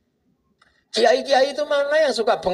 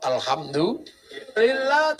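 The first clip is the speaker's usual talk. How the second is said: relieved thanks; much slower than usual. Retold or imitated. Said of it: "Begitu dengar suaminya ngorok".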